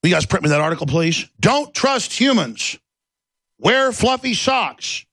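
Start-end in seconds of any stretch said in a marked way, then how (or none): 1.4-5.1 much higher, slow, sing-song; mock robotic slogan. Mocking Google's message, high and slow. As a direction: announce it like a cheesy creed.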